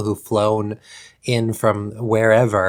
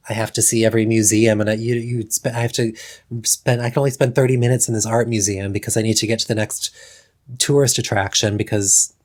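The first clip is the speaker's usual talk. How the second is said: rushed tourist; faster than usual. Retold or imitated. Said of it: "they're like".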